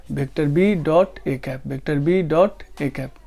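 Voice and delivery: slow, word-by-word dictation of "vector B dot A cap"; slow dictation saying "vector B dot A cap" without "into"; correct reading. Shown as a demonstration. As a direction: spell out "vector B dot A cap" slowly for students to copy. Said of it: "गलत है ये बात".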